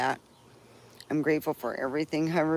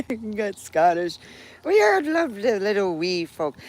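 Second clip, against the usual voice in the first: mock Scottish; 5 semitones higher, 5 dB louder than usual. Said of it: "because I'm Scottish and Irish".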